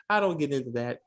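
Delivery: a hint of a prim Englishman, brushing it off; airy British deflection; mock British dodge. Guest dodging the jobs question, lightly mock British. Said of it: "She asked him".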